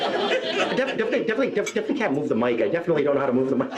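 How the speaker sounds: lightly voiced Rain Man stammer; Rain Man impersonation. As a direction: rattle off the repeats nervously. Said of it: "That was my Rain Man impersonation".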